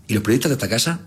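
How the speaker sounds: high, exaggerated emphasis, slowing at the end; mock-sincere praise. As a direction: take it all back with overdone emphasis. Sarcastic retraction of his accusation.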